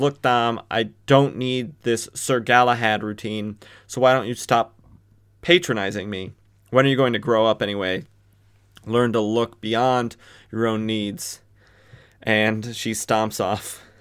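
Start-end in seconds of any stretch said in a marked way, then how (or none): none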